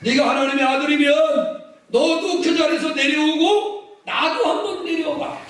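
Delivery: acted heckling, high and stretched; mocking taunt. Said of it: "얼마나 조롱하는 거야".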